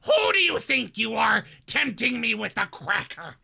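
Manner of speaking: Gilbert Gottfried voice. Acted. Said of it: "the Gilbert".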